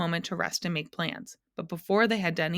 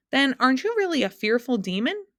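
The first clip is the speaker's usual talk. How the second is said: desperate; 7 semitones higher, 6 dB louder than usual. A narrator's reading. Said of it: "Milo asked desperately".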